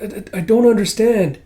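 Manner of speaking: high, loud, stuttering confusion; confused stammer. Acted. Kippa questions the doctor cat, confused stammer.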